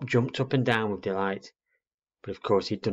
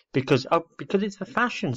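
put-on high, impatient little-girl voice; fumble, then declare it impatiently; exasperated girl; 9 semitones higher than usual. Little girl explaining fashion to a clueless owlet, exasperated.

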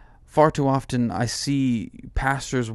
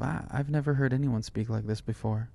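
hushed awe; 2 semitones lower, 6 dB quieter than usual. Retold or imitated. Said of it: "they'll have this reaction of".

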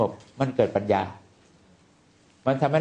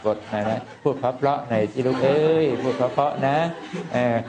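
put-on slow, coaxing voice, like calming a child; soothing self-talk. Monk voicing the calming inner voice, slow and coaxing. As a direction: gently talk yourself down, with a chuckle. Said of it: "แล้วก็ระลึกว่า".

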